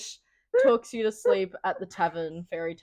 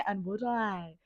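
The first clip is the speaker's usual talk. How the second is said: mock tag question; 8 dB quieter, slower than usual. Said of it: "her just being".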